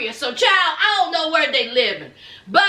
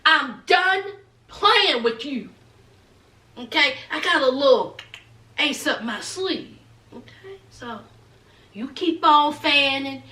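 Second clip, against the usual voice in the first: lower, firm mother laying down the law; mock stern mother refusing; low stern mama; 3 semitones lower than usual. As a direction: talk down low like a fed-up mama. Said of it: "Mama Submit said".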